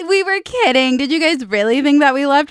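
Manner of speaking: high, cheeky mock taunt; teasing band voice. The band coming back on stage, high cheeky teasing. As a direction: tease the crowd like the band did.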